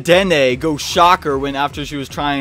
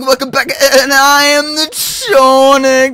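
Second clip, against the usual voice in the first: high, loud YouTuber opening; hyped intro; 9 semitones higher, 6 dB louder, slower than usual. Acted. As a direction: pump up the viewers like a host. Excited show intro greeting.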